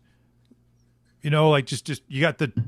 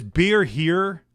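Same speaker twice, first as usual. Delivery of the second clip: stadium vendor hawking; 2 semitones higher than usual. Retold or imitated. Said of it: "how the Midwest beer guy sounds".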